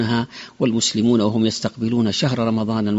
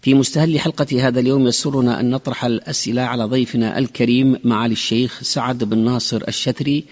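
formal standard arabic. Acted. Radio host opens programme.

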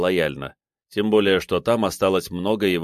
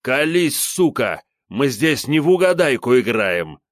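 angry yell; 6 semitones higher, 5 dB louder than usual. A narrator's reading. Captain beats suspect, yells.

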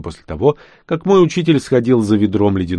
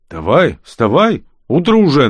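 cheeky; 5 semitones higher, 4 dB louder than usual. Acted. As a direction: rouse him without mercy. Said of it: "нагло заявил негр". (нагло и громко)

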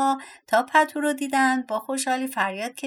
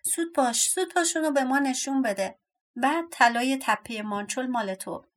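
mild shout, higher at the start; impatient cry; 3 semitones higher than usual. Acted. Dwarfs demanding to see her treasure, mild shout. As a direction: urge her on, easing into an offer. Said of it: "فریاد زدن".

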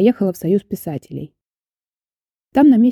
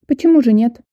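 higher, readily agreeing; willing agreement; 5 semitones higher, 4 dB louder than usual. A narrator's reading. Lady agrees to give visitor the address, willing. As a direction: agree readily, lifted in pitch. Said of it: "охотно согласилась дама".

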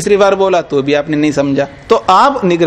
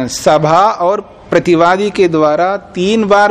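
slow dictation; slower than usual. Acted. Dictating the sutra slowly.

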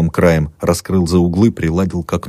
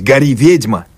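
mob yelling; 6 semitones higher, slower than usual. A narrator's reading. Street crowd yelling to burn the witch, high chant. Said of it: "А с улицы надрывались".

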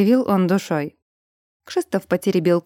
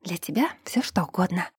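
breathy unvoiced whisper, much softer; 7 dB quieter than usual. A narrator's reading. Mari whispering to Brun behind the boss's door, hushed whisper. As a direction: whisper it secretly to the bear. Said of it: "и прошептала".

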